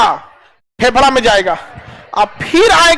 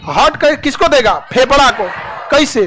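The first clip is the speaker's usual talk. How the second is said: ordinary delivery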